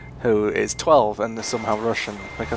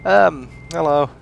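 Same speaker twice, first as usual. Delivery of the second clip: put-on Russian accent; 4 semitones higher, 6 dB louder, slower than usual. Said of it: "I thought I'd try out another accent".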